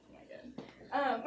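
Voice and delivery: slow, breaking into laughter; laughing. Real, not acted. Speaker loses it laughing at her own line. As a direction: let the words dissolve in giggles. Cracking up on stage.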